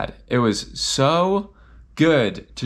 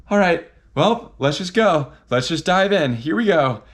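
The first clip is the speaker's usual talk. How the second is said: psyched-up pep talk; 6 semitones higher than usual. Retold or imitated. Psyching up to dive in.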